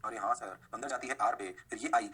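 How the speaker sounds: low pupil voice; student realisation. Acted. Teacher playing students who just caught on, student realisation. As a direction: drop low for a pupil catching on.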